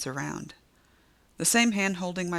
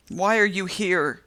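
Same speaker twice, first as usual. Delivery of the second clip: slow, louder ragged scream; 3 semitones higher, 6 dB louder than usual. A narrator's reading. Delivery woman screaming at the narrator. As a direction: scream it right into her face. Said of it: "she screams into my face".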